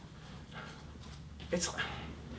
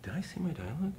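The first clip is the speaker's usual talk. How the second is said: laughing; 4 semitones higher, 9 dB quieter than usual. Retold or imitated. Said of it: "walks up to the script supervisor and goes".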